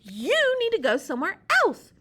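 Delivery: high, loud demand; Sea Slug yelling. Acted. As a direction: order the pelican away.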